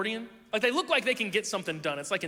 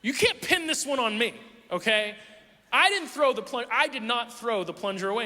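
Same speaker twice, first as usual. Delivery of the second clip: higher, louder protest; indignant; 4 semitones higher, 3 dB louder than usual. Retold or imitated. Husband to wife back from Walmart, indignant protest. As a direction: refuse the blame. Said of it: "But I was like".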